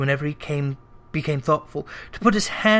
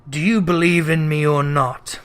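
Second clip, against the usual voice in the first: ghostly voice; 2 semitones lower than usual. Acted. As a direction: speak from beyond the grave. Ghost voice held.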